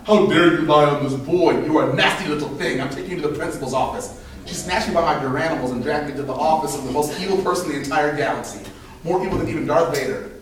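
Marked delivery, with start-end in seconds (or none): 0.1-4.1 angry teacher. Retold or imitated. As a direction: tell him off with outrage. Teacher scolding a lying boy.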